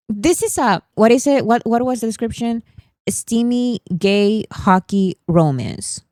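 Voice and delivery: mock skeptical viewer. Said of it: "because you would be like".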